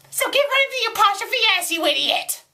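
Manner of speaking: high, fast, exasperated outburst; angry insult. Real, not acted. Reader orders the writer to fix it, exasperated.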